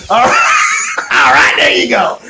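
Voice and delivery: ordinary talk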